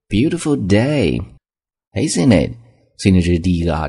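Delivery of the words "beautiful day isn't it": a little less lifted repeat, Beautiful drawn out slowly; friendly small-talk tone. Shown as a demonstration. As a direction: say it again, slow and friendly. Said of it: "这种语气很重要". (再说一遍，语气友好，Beautiful 放慢)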